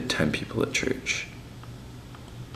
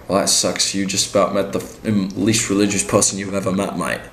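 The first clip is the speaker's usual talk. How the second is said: put-on English accent; 4 dB louder than usual. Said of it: "I'm from England".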